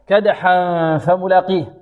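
"كدحا فملاقيه" chanted with a held nasal hum before the f; slow "كدحا", nasalised into the f; ikhfa recitation. Shown as a demonstration. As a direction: draw out the hidden n at the end of "كدحا" into "فملاقيه". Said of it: "الإخفاء".

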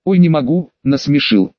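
plain reading voice

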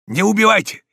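high, loud plea; desperate shout. A narrator's reading. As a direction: cry out as hope fades. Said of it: "кричал Дон Иниго, теряя надежду". (отчаянный крик)

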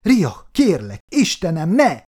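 high, loud breaking plea; man begging his dying partner, tearful and high; tearful pleading. A narrator's reading. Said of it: "utat engedett a bánat könnyeinek".

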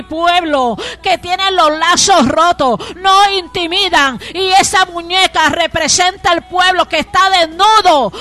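insistent, mounting proclamation; God's message, preached. Retold or imitated. God explains the broken ribbon to the preacher, proclaimed forcefully. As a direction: build to a loud prophetic declaration.

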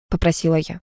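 plain reading voice

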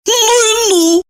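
high amazed exclamation. Acted. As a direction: marvel at it. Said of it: "подивилась Ирина".

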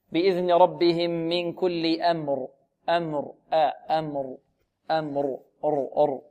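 slow recitation, "أمر" kept thin with a voiced final r; light hamza and meem. Shown as a demonstration. Teacher recites for students to copy, light hamza. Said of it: "لا بد من تلطيف الهمزة وتلطيف الميم".

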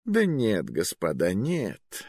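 disappointed. Acted. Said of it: "разочарованно поморщился он".

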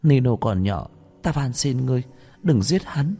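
high-pitched, imploring woman; acted desperate plea for mercy; tearful-style pleading. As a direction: beg for his life, voice lifted. Mother begs for father's life.

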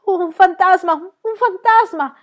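high, loud panicked yell, slowing on the repeat; screaming in fright. A narrator's reading. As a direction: scream at the top of your lungs. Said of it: "gridò a perdifiato". (urlando a perdifiato dalla paura)

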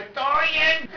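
breezy tonito. Retold or imitated. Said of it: "Y menos en ese tonito de".

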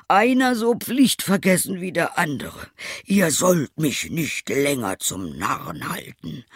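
high, loud ranting tailor; beside himself with anger. A narrator's reading. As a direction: rage at the boys, starting at the top. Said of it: "vor Zorn ganz außer sich". (außer sich vor Zorn)

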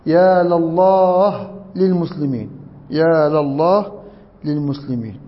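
لله as "la-llah", للمسلمين as "lil-muslimin"; fatha then kasra. Shown as a demonstration. Teacher demonstrating the call for help, "la" in لله. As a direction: draw out يا لله, open la sound. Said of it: "وبنكسر لام المستغاث له".

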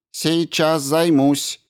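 high, measured, slow robot voice; polite robot. A narrator's reading. Robot Ram greets the injured doctor, high and slow. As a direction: greet him like a courteous machine.

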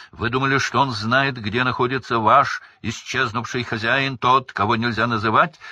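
loud accusing voice. A narrator's reading. Crouch raising his voice to drown out his son. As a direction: drown out the son's words. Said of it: "Крауч повысил голос".

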